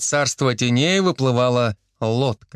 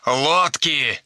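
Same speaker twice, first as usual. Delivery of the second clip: the second лодки hissed with more push; eager hiss. Acted. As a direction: hiss лодки urgently into the mic. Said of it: "азартно шипел в микрофон Никитич".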